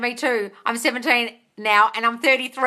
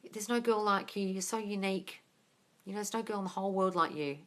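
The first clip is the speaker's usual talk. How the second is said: whispered sweet talk; 4 semitones lower, 11 dB quieter than usual. Retold or imitated. Ex's sweet-talk quoted on phone.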